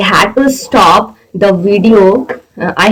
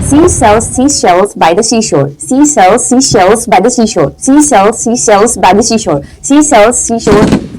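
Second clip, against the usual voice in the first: steady chanted repetitions; rapid tongue twister. Shown as a demonstration. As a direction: rattle it off round after round. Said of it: "As fast as you can".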